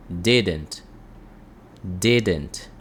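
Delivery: "Didn't" as DI-dent, falling on the second syllable; stress on first syllable. Shown as a demonstration. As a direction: model "Didn't" low, stressing DI and letting "dent" fall. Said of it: "A entonação nessa primeira letra". ("Didn't" com a primeira sílaba tônica, DI-dent)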